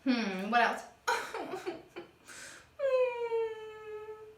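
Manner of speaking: hammed-up whimpering cry; mock crying. Shown as a demonstration. Teacher pretending to cry for the kids. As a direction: fake a little sob. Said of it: "I'm crying".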